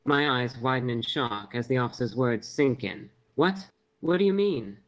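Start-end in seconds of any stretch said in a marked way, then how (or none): 3.3-4.8 high-pitched, stunned question; disbelieving. A narrator's reading. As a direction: ask it in disbelief. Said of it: "my voice now filled with disbelief".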